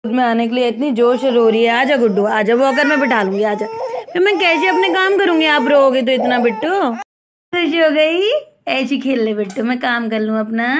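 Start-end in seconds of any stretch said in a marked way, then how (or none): 1.7-6.4 pleading over crying. Real, not acted.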